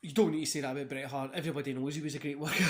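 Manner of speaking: loud, fast teasing retort; mock heckle. Viewer mocking streamer, loud teasing heckle. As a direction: heckle yourself for repeating the praise.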